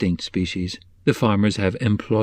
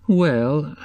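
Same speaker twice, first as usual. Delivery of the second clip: hesitant Mrs Cobb; 6 semitones higher than usual. A narrator's reading.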